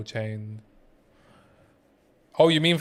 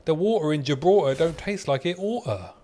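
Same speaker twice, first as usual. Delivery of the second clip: higher-pitched mock Cockney; playful London patter; Cockney accent; 4 semitones higher than usual. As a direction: read it in a put-on London accent. Reads Cockney rhyme in put-on accent.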